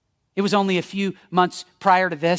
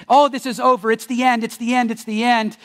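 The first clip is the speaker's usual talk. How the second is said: raised, higher, overwrought mourner's cry; mock wailing yell; 4 semitones higher, 4 dB louder than usual. Mourners yelling at a coffin, mock wailing. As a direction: play a despairing funeral wailer, hammed up. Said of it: "they're yelling and throwing their jackets".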